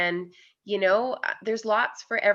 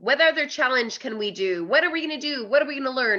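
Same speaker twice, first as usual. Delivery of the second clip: rallying excitement; 5 semitones higher, 3 dB louder, faster than usual. Real, not acted. Rallying cry after covid hardship.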